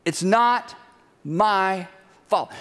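Eve excusing herself. Acted. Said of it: "And the woman said".

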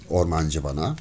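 plain reading voice

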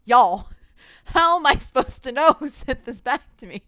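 exasperated shout at the guests; exasperated call-out. Retold or imitated. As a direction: call out to everyone, fed up. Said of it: "And I'm like".

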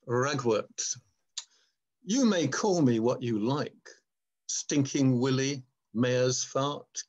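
a touch of defiant plant voice in a measured recital; poem reading. Acted. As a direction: read it as the proud weed speaking.

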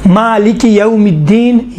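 slow यौमिद्दीन with a full diphthong; slow correct yaum. Shown as a demonstration. Teacher modelling the right vowel, slowly. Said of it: "यो नहीं".

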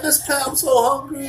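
put-on high-pitched child begging for food; pleading kid. Hungry kid to the lunch lady, high pleading voice.

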